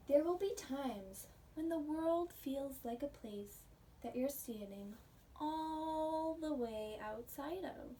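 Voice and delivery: gentle read-aloud storytelling voice; picture book reading. Acted. Teacher reading a picture book to her pre-K class, storytelling voice. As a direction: read the story warmly to little kids.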